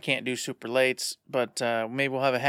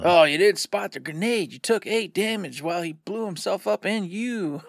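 mock-dramatic reveal, climbing higher; theatrical game master; 5 semitones higher than usual. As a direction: imitate a game master springing bad news. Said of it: "Or he's gonna be like".

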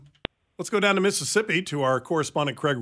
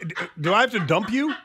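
shocked; 7 semitones higher, 4 dB louder than usual. Real, not acted. Host shocked by caller.

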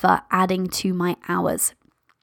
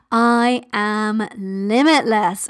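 very slow, drawn-out bold affirmation; mother lioness roar; much slower than usual. Shown as a demonstration. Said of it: "Do that limitless mother lioness roar".

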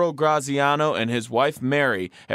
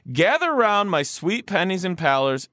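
higher, rallying storyteller opening; storyteller's call; 6 semitones higher than usual. Acted. Host reading the letter's opening to listeners, storyteller's call. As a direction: summon listeners round for a story.

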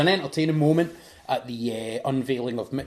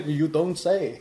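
dry quote; 4 semitones higher, slower than usual. Retold or imitated. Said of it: "he's like".

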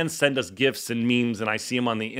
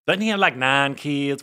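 lightly voiced Southern accent; a hint of a Southern drawl. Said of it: "with her Southern accent".

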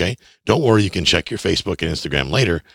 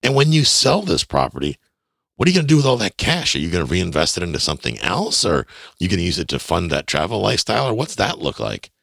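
enthusiastic questioning; 2 semitones higher than usual. Shown as a demonstration. Buyer casually asking the seller about plans, enthusiastic. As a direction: ask it with upbeat, friendly interest. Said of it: "with an excited tone".

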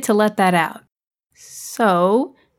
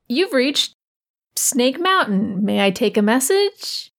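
phone answering voice; slower than usual. Acted. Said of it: "it would ring".

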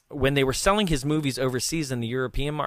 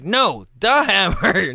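slow, higher, louder "the Hammer" with "the" hit hard; insistent correction; 6 semitones higher, 8 dB louder, slower than usual. Retold or imitated. A star correcting the secretary's wrong name, slow emphatic "the Hammer". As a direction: lean on "the" to fix the mistake.

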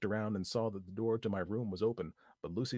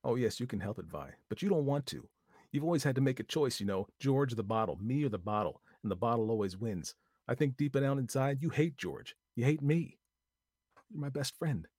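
higher, louder, hurt and accusing; bitter accusation; 4 semitones higher, 5 dB louder than usual. A narrator's reading. Lucy confronting her drunken friend, bitter and louder. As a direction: lay out every grievance.

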